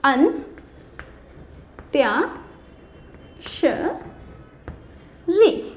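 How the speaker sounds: अंत्याक्षरी drawn out very slowly, syllable by syllable; very slow model word. Shown as a demonstration. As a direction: stretch अंत्याक्षरी out for the class to repeat. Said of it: "आ पे अं की मात्रा". (अंत्याक्षरी बहुत धीरे, खींचकर)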